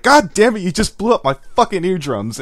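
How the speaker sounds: hammed-up outrage over loud intro; yelling complaint. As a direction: bark it like he's been deafened. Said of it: "would be like".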